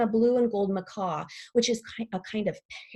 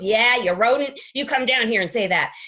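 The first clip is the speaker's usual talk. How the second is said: dog's challenge; 6 dB louder than usual. Acted. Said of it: "and he goes".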